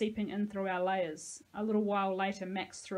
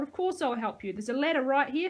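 put-on raised, indignant old man; yelled; 5 semitones higher, 6 dB louder than usual. A narrator's reading. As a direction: shout it impatiently, pitched up. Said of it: "he yelled".

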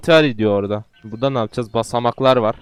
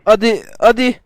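high, louder come on; urgent urging; 8 semitones higher, 5 dB louder than usual. Real, not acted. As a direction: push it on eagerly. Urging game character.

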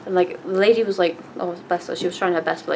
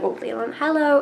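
high excited hello; 8 semitones higher, slower than usual. Retold or imitated. Greeting Leon, starstruck.

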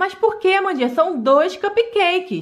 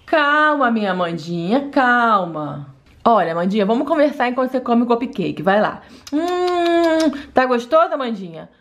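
soothing mother; 5 semitones lower than usual. Acted. Mother soothing crying daughter.

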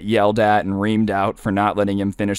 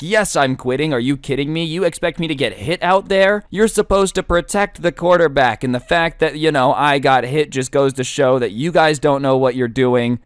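put-on whiny spoiled kid; 4 semitones higher than usual. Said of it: "the spoiled kid's like".

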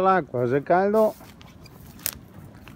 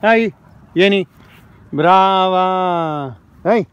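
talking to a dog. Real, not acted. Calling the dog outdoors. (richiamo al cane, forte e acuto)

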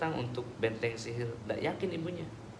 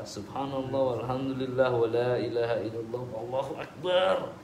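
recited dhikr. Shown as a demonstration. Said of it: "Gimana jawabnya?".

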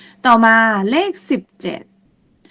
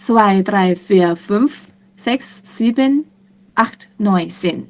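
quick counting; much slower than usual. Shown as a demonstration. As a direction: run the numbers together. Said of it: "ถ้านับเร็วๆ ก็จะเป็น". (นับเร็วๆ ต่อเนื่องกัน)

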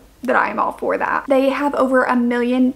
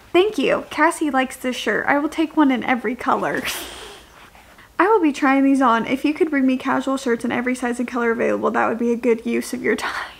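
put-on proper old-fashioned gentleman. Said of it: "he talks, like, very, like, proper".

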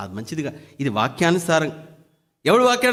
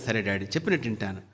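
meek obedient son; 9 semitones lower, 8 dB quieter, faster than usual. Retold or imitated. Obedient son answering father.

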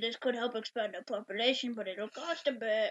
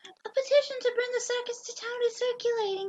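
higher formal advisor; 11 semitones higher than usual. Acted. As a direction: announce it like a court herald. Advisor announcing event.

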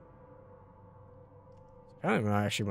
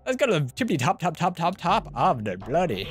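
higher, louder playful sing-out, stretched at the end; hammed-up excitement; 6 semitones higher, 5 dB louder than usual. Gamer hyping himself up to climb the tower, hammed-up excitement. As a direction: punch out the repeated tops, high and loud.

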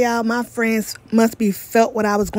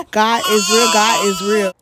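crying. Real, not acted. Tearful testimony of answered prayer.

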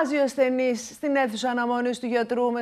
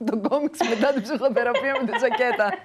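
talking through a laugh. Real, not acted. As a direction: let the laugh break into the words. Laughs while speaking. (μέσα από γέλιο)

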